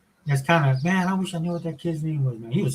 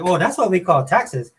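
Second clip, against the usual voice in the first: knowing dad; 4 semitones higher, 4 dB louder, slower than usual. Retold or imitated. Dad delivering punchline to daughter.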